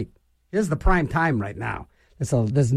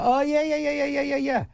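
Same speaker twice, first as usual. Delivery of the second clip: mock know-it-all; 10 semitones higher than usual. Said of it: "one of these know-it-alls".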